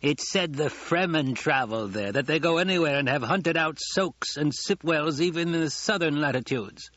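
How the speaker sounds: talking around a mouthful of food; mouth full. Acted. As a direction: chew through the sentence as you talk. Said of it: "spoke around a mouthful of food".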